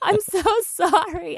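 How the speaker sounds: high, whimpering apology through laughter; mock crying. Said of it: "just still crying".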